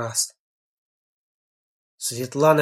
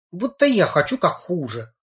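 sarcastic; 4 semitones higher than usual. Acted. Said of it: "съязвил Женька".

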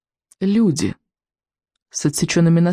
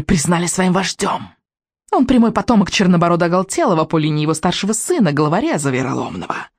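witch voice with a vile note; nasty witch; 2 semitones higher than usual. Acted. Witch claiming her son's lineage, nasty note. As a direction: make the claim nastily, like a witch. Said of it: "в её голосе послышалась особенно гнусная нотка".

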